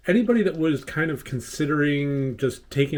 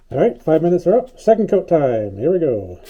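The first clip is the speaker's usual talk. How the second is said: loud; 3 semitones higher, 10 dB louder than usual. Real, not acted. Back after waiting, loud restart.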